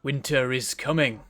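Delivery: slow, drawn-out Winter is coming with a falling end; ominous Game of Thrones quote. Retold or imitated. Streamer muses on the weather, slow ominous Game of Thrones quote. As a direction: intone "Winter is coming" slowly like a grim northern lord. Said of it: "Game of Thrones".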